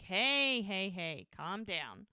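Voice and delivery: retold talking-down, falling away; calming someone down. Retold friend calming Ricky down.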